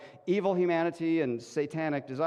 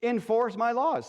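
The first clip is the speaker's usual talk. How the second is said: pitched up high, a bossy king calling his guards; lightly voiced king demanding answers; 5 semitones higher than usual. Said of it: "they're like".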